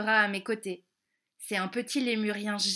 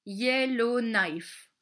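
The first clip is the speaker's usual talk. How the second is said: slow name; much slower than usual. Shown as a demonstration.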